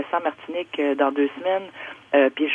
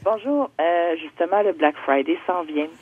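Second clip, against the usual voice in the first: over a landline phone; slower than usual. Real, not acted. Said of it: "on va aller au téléphone".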